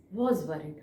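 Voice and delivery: said with quiet concern; a touch of worry, easing down; worried. Shown as a demonstration. Teacher repeating the story's words for students, worried. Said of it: "I am expressing with my face".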